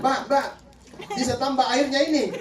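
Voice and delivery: mock yell across a food stall; calling out. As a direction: imitate a customer calling for service. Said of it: "dia berteriak lagi tuh".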